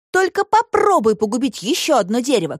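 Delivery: put-on high girl's voice, reasoning; Alisa arguing. A narrator's reading. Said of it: "крикнула Алиса". (высокий девичий голос, спорит)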